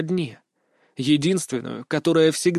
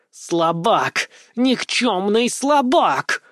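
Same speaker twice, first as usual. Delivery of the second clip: raging monster rant; 6 semitones higher than usual. A narrator's reading. Monster screaming abuse at the hero. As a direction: spit hatred at the weakling.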